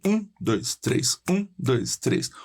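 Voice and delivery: counting one-two-three, first beat strongest. Shown as a demonstration. Teacher counting a ternary meter aloud. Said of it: "Ou ternário".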